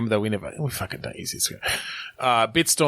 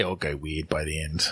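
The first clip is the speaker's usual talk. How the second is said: whispering; 7 semitones lower, 7 dB quieter than usual. Real, not acted. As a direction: breathe it out under your breath. Quiet aside to co-host.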